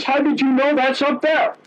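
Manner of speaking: high, incredulous driver's voice; high-pitched disbelieving trucker; amazed truck driver. Retold or imitated.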